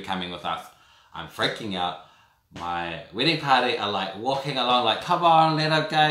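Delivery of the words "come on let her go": loud, higher call of protest; friends protesting. Retold or imitated. Wedding party yelling at the police, loud and high. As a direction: shout it across the street at the police.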